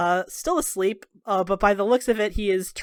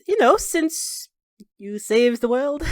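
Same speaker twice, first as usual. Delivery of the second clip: servant hinting pointedly; 3 semitones higher, slower than usual. Acted. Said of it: "She says".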